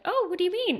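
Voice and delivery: feigned innocence. Retold or imitated. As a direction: play dumb, all innocence. Playing innocent to friend.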